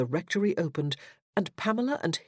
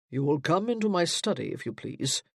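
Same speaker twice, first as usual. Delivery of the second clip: pulpit voice. Acted. Stern father summoning his daughter, pulpit voice. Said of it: "It was his pulpit voice".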